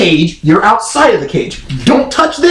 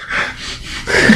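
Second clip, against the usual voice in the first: 1 weary sigh; 7 dB quieter than usual. Retold or imitated. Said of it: "And he's like".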